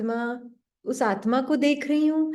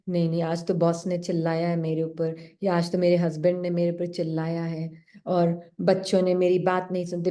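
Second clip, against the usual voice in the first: lower, aggrieved inner grumble; complaining first thought; 5 semitones lower than usual. Retold or imitated. The first thought complaining about boss and husband, lower voice. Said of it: "एक संकल्प पहले देगा, फिर".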